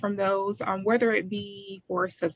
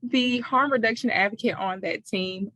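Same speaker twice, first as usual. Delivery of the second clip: cotton mouth. Real, not acted. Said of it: "cotton in my mouth this morning".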